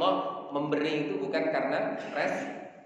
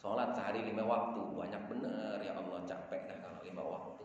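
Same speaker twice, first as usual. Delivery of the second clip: lower, softer, whining grumble; a mock-tired grumble about too many prayers; whiny complaint; 9 semitones lower, 9 dB quieter than usual. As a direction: moan about praying five times a day like a lazy worshipper. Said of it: "Jangan kebanyakan protes".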